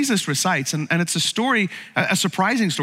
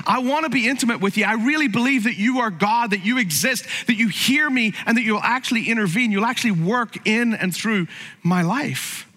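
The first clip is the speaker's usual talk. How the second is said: higher, faster pleading prayer; earnest prayer; 4 semitones higher than usual. Retold or imitated. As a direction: pray it with urgent sincerity. Voicing a heartfelt prayer.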